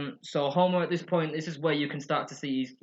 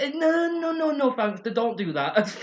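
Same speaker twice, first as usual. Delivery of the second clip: Lisa voice; 10 semitones higher, 5 dB louder, slower than usual. Retold or imitated. Lisa refusing Homer's offer.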